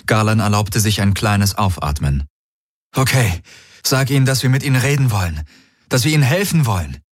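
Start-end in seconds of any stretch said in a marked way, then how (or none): 2.9-7.0 quick, pressed request; urgent. Acted. Galen urgently tells the Helix to offer help. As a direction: rush the order out eagerly.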